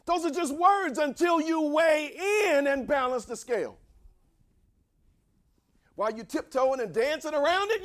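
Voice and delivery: high, exhorting cries; impassioned preaching. Real, not acted. Preacher challenging those not balancing the scale, high impassioned exhortation.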